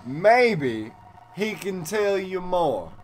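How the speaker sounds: village elder voice. Acted. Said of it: "my voice changed again".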